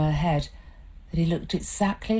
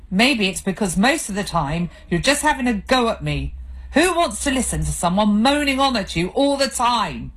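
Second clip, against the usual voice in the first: heated; 5 semitones higher, 3 dB louder than usual. Acted. Couple's heated row.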